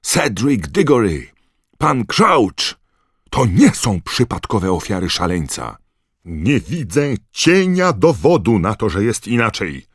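wysoko i głośno, z oburzeniem; wojowniczy krzyk. Acted. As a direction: wykrzycz to bojowo, wyżej i głośniej. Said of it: "krzyknął wojowniczo". (wojowniczo krzyczy)

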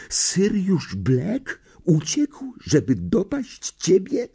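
high, slow, alarmed schoolgirl voice; anxious girl. A narrator's reading. Hermiona frets over Harry, alarmed high voice.

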